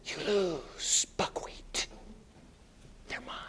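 a sly taunting whisper. Retold or imitated. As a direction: breathe it mockingly into his ear. Satan whispering taunt to Jesus.

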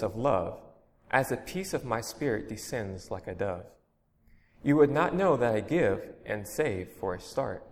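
earnest, measured reading of a devotional poem. Acted. Preacher reading a poem to his congregation, earnest and measured. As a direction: read the poem to the congregation with feeling.

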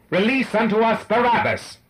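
high, loud bellow of an angry mob. A narrator's reading. The mob answers Pilate, bellowing like wild beasts. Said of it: "Like the bellowing of wild beasts".

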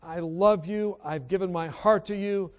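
heartfelt spoken prayer, lifting in pitch; earnest prayer. Retold or imitated. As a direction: pray aloud with building intensity. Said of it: "So I pray".

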